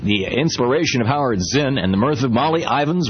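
punchy sales read with lively pitch swings; radio ad read. Acted. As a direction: sell it like a radio commercial. Recorded-style magazine ad read.

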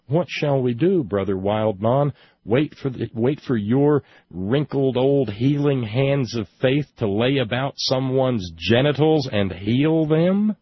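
scornful, building to an incredulous question; sarcastic challenge. Real, not acted. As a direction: taunt the preacher with indignant sarcasm.

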